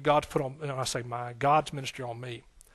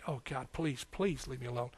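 much softer, worn-out begging; broken plea; 3 semitones lower, 10 dB quieter than usual. Retold or imitated. Young man worn down by God, soft pleading surrender. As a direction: give in with a soft, exhausted plea. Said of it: "I said".

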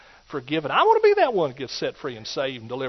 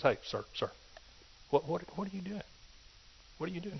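softer, hushed disapproval; hushed usher; 2 semitones higher, 13 dB quieter, faster than usual. Acted. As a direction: usher hushing a man mid-service. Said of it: "ushers just walked over to him and says".

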